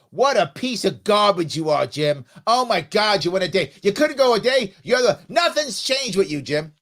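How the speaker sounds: loud scolding of a friend who relapsed; tearing into Jim for smoking; mock scolding. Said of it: "And you go".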